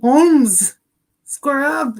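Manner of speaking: high, loud mock tough guy; put-on challenge voice. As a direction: square up in a playful put-on voice. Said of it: "use that voice".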